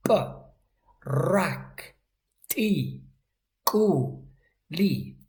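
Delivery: P, rak, ti, ku, li, one forceful syllable at a time. Shown as a demonstration. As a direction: punch each sound of "P, rak, ti, ku, li" separately. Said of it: "extra effort to make these sounds impact".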